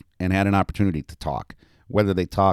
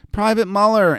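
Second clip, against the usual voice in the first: put-on high, loud sing-song child; 6 dB louder than usual. A narrator's reading. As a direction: chant the name teasingly to a sleeper. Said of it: "Annie sing-songed at him".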